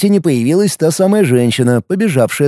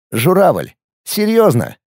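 mocking question; 4 semitones higher, slower than usual. Mocking the crane sculpture.

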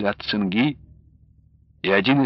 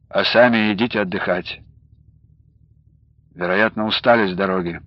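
kinder; 4 semitones lower than usual. A narrator's reading. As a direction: soften toward the tired man. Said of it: "закончил он добрее".

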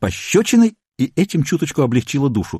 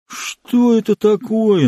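frowning; 9 semitones higher, much slower than usual. A narrator's reading. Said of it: "нахмурился мистер Корнер".

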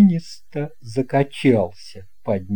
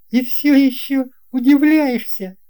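teasing question; 10 semitones higher, 5 dB louder than usual. A narrator's reading. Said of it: "pilot teases".

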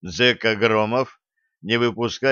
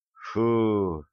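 relieved exhale; 4 dB quieter than usual. Acted. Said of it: "облегчённо выдохнула Стесси".

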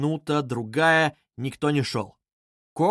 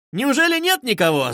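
bright, much higher call up the stairs; ringing cheerful call; 9 semitones higher, 4 dB louder than usual. A narrator's reading. Young man calling up the stairs, cheerful and ringing. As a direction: call out gaily, louder. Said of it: "звонко и весело закричал".

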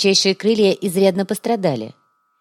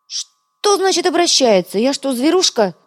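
much higher, outraged and slow at first; indignant squeal; 9 semitones higher, 4 dB louder, slower than usual. A narrator's reading. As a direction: squeal in offended protest. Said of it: "возмущённо заверещал". (возмущённый визг, высоко)

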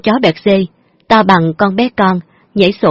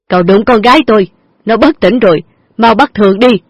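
accusing; 2 semitones higher, 4 dB louder than usual. Acted. Father accuses the driver.

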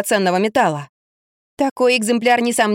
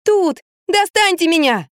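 shout; 8 semitones higher, slower than usual. A narrator's reading. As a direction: shout to be pulled out. Trapped woman shouting.

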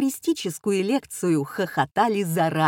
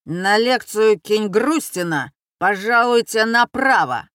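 a light, official doorman voice; a hint of a pompous doorman directing guests; doorman's tone; 3 semitones higher, 5 dB louder than usual. A narrator's reading. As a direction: announce it like a proper hall porter. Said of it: "тоном настоящего швейцара".

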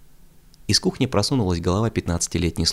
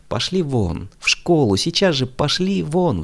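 shrieking; 9 semitones higher, slower than usual. A narrator's reading. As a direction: screech them out of the house. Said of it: "взвизгнула она не своим голосом".

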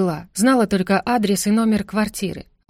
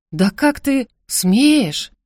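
loud, slow, higher outraged cry; outraged mother; 4 semitones higher, 5 dB louder, much slower than usual. A narrator's reading. Mother outraged at daughter's insolence, loud slow cry. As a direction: drag out the outrage.

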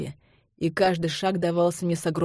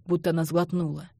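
ordinary delivery, nothing marked

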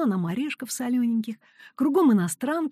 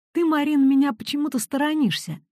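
hurt; 6 semitones higher than usual. Retold or imitated. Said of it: "обиженно сказал".

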